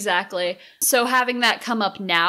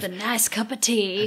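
relaxed farmer; 3 dB quieter than usual. Retold or imitated. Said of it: "acting out farmer Frankie".

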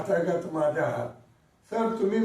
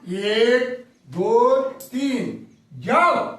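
countdown; 2 semitones higher, 4 dB louder, much slower than usual. Acted. Magician counting down a trick.

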